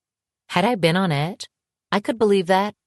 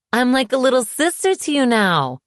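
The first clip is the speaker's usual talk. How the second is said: much higher, stung echo; outraged disbelief; 8 semitones higher, 4 dB louder than usual. A narrator's reading. Woman stung at being called little sister, outraged. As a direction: repeat his words in indignant disbelief.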